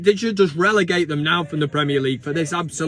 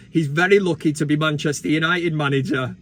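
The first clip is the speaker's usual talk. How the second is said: laughing quote; 3 semitones lower than usual. Retold or imitated. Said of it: "backs it up with".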